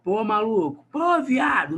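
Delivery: teacher hamming up a rowdy Rio guy; carioca accent. Retold or imitated. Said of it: "Carioca, que, né, fala assim".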